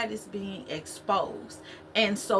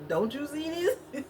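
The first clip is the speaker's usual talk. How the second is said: higher, slow laughing-crying whine; little girl meme; 7 semitones higher than usual. Retold or imitated. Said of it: "a little girl was like".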